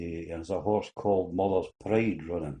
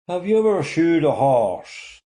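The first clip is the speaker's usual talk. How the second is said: interview panel; 8 semitones higher, 5 dB louder than usual. Acted. Interview panel asks the lad.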